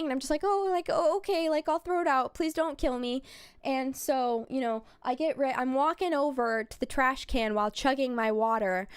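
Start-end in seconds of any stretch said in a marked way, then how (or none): 0.4-3.2 higher, lightly flustered quote; retold mild panic. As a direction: give in with a touch of mock panic. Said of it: "I'm kind of panicking".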